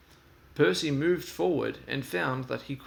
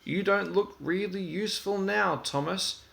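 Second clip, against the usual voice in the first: teasing; 6 semitones higher than usual. A narrator's reading. Percy teasing Thomas.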